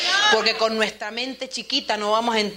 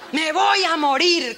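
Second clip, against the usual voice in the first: whiny Elijah; 7 semitones higher, 7 dB louder, slower than usual. Acted. Preacher mimics despairing Elijah.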